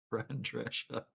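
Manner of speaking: slow drawn-out Queens name; Fran Drescher. Retold or imitated. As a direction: stretch it like the nanny would. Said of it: "speak anymore in Fran Drescher".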